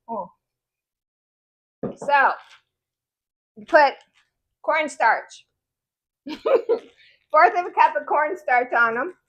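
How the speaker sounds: talking around ice in mouth. Real, not acted. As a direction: speak with ice in your mouth. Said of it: "I got ice in my mouth".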